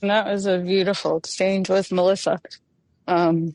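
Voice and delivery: talking with a mouth stiff from cold; words stiff from a frozen mouth. Real, not acted. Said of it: "My mouth is frozen, so it's hard".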